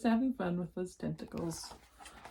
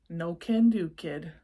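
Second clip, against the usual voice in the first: growled; 5 dB louder than usual. Acted. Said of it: "Gabe growled".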